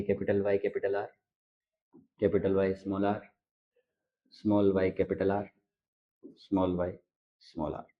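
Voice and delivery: soft, fast mumbled letter list; child reciting letters too softly before being told to speak up; quiet quick recital. Shown as a demonstration. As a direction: rattle it off under the breath. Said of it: "थोड़ा जोर से बोलिएगा".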